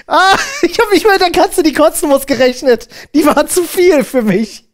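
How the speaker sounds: breaking up while talking; trying not to laugh. Real, not acted. Laughing at gross cat video.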